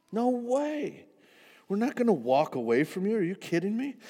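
how could you even say that; indignant protest. Acted. Disciples all protest together.

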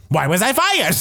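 high, baffled mock whine; imitating a shocked housewife; mock bewildered. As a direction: play her lost and confused. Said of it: "so visibly like".

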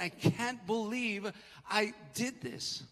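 slow, stunned self-reproach, lightly acted; imagined remorse. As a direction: voice Peter's regret, slowly and heavily. Peter's imagined thought after denying Jesus.

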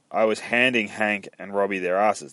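deliberate, with HANDING picked out; careful retake. Acted. Alice telling the sheriff, careful and measured. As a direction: take "handing Hank and Robbie" word by word.

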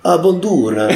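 high, laughing fake Chinese Corsican accent; hammed-up mock Chinese Corsican accent. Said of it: "dix secondes d'accent chinois corse".

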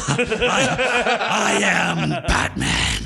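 laughing. Pretend. Laughing Batman line.

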